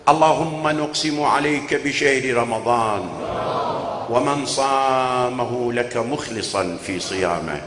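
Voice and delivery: measured supplication voice; prayer. Acted. Preacher leading the closing duaa for the mourners. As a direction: lead the congregation in prayer.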